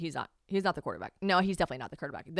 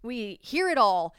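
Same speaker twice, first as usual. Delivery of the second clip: usual speaking voice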